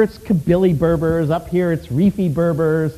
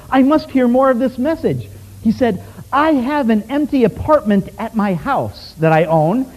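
a Moroccan man begging to learn more, excited; eager request; 5 semitones higher than usual. Retold or imitated. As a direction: play the man hungry to hear more.

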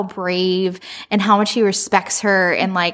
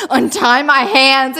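gasped, drawn-out louder plea; mock freak-out; 4 semitones higher, 5 dB louder, slower than usual. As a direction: act out a gasping, freaked-out demand. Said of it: "he's freaking out".

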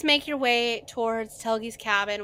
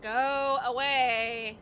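yelled go away; 2 semitones higher, much slower than usual. Acted. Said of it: "She yells at him".

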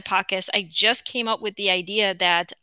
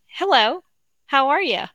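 seductive; 6 semitones higher than usual. Shown as a demonstration. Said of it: "does it sound a little seductive?".

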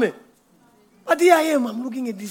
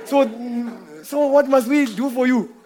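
imitating grateful owners; 3 semitones higher, 3 dB louder than usual. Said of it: "They will say".

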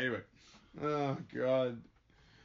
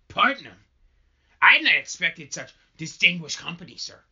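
higher and louder, mock-impressed; theatrical Hale; 3 semitones higher, 8 dB louder than usual. Hale greets the Putnams, higher, louder and mock-impressed. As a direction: act flattered by grand company.

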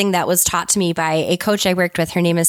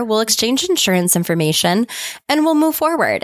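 reassuring; 3 semitones higher than usual. Retold or imitated. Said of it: "it didn't even take effort to just say".

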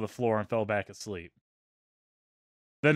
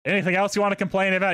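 sarcastic; 6 semitones higher than usual. Retold or imitated. Sarcastic reply to complaints.

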